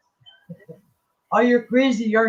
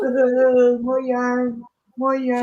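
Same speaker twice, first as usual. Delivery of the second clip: high, eager call for more; excited call; 5 semitones higher, 3 dB louder, slower than usual. Real, not acted. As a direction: cheer for more yarn. Cheering for more yarn.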